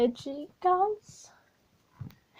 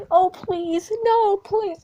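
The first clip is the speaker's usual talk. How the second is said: mock pleading; 8 semitones higher, 6 dB louder, slower than usual.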